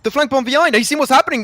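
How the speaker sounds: high alarmed play-by-play shout; excited shout. Real, not acted. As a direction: yell out the surprise flank. Sudden flank play, casting.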